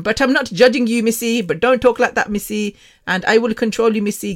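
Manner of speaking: lightly voiced nagging; mock critics. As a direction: imitate someone scolding while claiming not to judge. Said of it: "because they were like".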